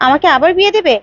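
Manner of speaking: mildly angry wife scolding her husband; angry outburst. Acted. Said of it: "রেগে যায় আর বলে". (রাগে ফুঁসে ওঠা)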